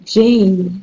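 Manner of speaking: ordinary delivery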